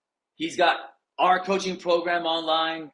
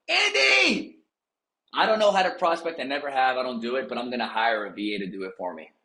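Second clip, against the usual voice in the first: mock clueless agent; 2 semitones lower than usual. Agent to Andy, mock clueless voice. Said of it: "here's another one".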